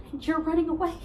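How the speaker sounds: pained, held-back disbelief; hurt realization. Acted. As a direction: say it as it dawns on you. First take of repeated accusation.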